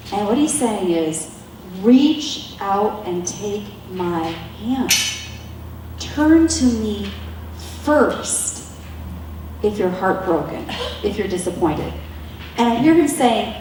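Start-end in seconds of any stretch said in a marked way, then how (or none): 1.8-11.9 slow, gentle plea to take his hand; God speaking tenderly to the hurting, slowly; slow tender invitation. Acted. God's invitation voiced slowly.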